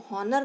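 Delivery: हॉनर with a sounded h; wrong pronunciation. Shown as a demonstration. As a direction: say हॉनर with the h spoken aloud. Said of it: "नहीं बोलते हैं". (हॉनर, ह की आवाज़ के साथ)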